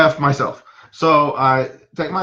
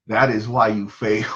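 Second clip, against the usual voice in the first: lightly voiced wise old master, lower; Master Yoda; 6 semitones lower than usual. Therapist to disbelieving mom, lightly voiced low sage pronouncement. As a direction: drop low for a hint of the sage. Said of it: "So I, in my Master Yoda".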